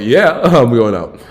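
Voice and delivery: laughing through the words, slow; laughing reply. Retold or imitated. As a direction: chuckle out the answer.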